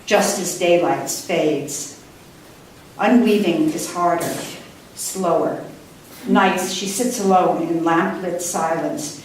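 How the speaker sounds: unhurried, even poetic reading; poem reading. Acted. Poet reading her Penelope poem to the audience, measured. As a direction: savour each image in the list.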